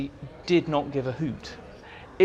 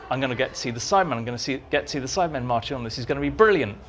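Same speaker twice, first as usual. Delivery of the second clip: giddy anticipation; 4 semitones lower, much faster than usual. Retold or imitated. Excited anticipation of Cybermen.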